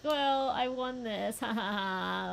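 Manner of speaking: drawn-out imitation of a careless victor; dismissive gloating. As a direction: imitate a smug winner brushing it off. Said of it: "just kinda dismissing it".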